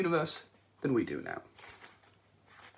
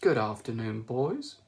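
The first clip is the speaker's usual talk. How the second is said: matriarchal computer; 6 dB louder than usual. Acted. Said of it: "It had a matriarchal twang".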